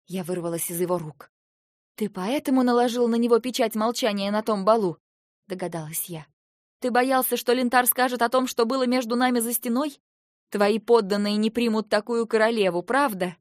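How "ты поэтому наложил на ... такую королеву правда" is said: higher, louder confrontation; accusing outburst. Acted. Wife confronts husband about the ball, loud and high. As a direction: throw the accusation at him.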